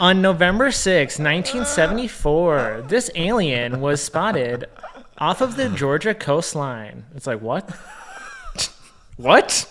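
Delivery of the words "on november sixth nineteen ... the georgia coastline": mock alien-video narrator, over-enunciated; stilted script reading. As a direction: read it out stiffly, like a poor reader. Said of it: "as if they are reading from a script, but poorly".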